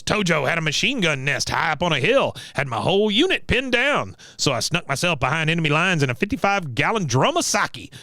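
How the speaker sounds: lightly voiced war-veteran storyteller; a hint of an old veteran bragging; Cotton. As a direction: tell it as a boastful old soldier, pitch jumping up. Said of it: "he goes".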